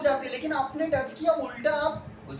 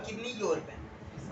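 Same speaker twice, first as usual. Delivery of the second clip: "Give me your pen" said slowly and softer, as a bossy demand; arrogant demand; 8 dB quieter, much slower than usual. Shown as a demonstration. Teacher showing an arrogant way to ask. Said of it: "थोड़ा सा arrogant नजर आ रहा है".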